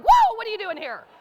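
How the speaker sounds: high, loud mock surprise; hammed-up double take; startled. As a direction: burst out with a startled whoa. Startled to find the CEO beside her.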